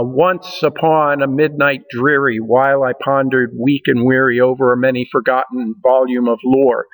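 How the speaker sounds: recited poem with the beat marked; poetry recitation. Shown as a demonstration. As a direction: read The Raven aloud, leaning on the rhythm. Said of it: "you can hear the rhythm in that".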